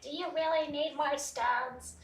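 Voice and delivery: slow, high-pitched mock nagging; pissed-off partner. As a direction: imitate an exasperated spouse. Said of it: "partners get all fucking pissed".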